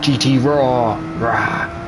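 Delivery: Kiwi-flavoured G T Raw; New Zealand accent. Shown as a demonstration. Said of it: "my funny New Zealand accent".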